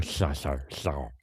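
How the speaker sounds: mock a Batman voice falling apart; lightly imitated, slurred superhero voice; struggling Batman impression. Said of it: "It was turning into a kind of a".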